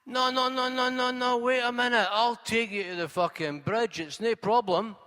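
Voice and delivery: cabbie's urgent protest. Acted. Cabbie stops passenger getting out.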